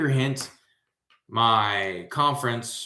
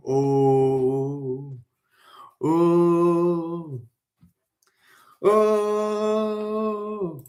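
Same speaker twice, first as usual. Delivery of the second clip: rising oh's; 6 semitones higher, much slower than usual. Real, not acted.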